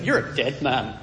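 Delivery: mock-Irish threat; Irish accent. Preacher voicing God warning Abimelech, in an Irish accent. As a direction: put a touch of Irish accent on it. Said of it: "you've got to say it in an Irish accent".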